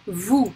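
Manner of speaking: Vous said "voo", S silent; silent final S. Shown as a demonstration. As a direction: say Vous alone, ending on the vowel. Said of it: "a consonant that we don't pronounce".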